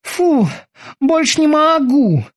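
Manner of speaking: exhausted, slow and winded; out of breath. Acted. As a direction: gasp it out, spent. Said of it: "Кики окончательно выдохся".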